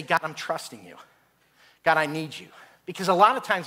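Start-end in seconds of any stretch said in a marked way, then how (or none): 0.0-2.5 earnest prayer. Acted. Believer in a desperate moment to God, earnest prayer. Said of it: "in that moment, we have to say".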